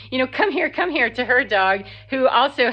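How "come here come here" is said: calling her dog. Retold or imitated. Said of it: "she was saying".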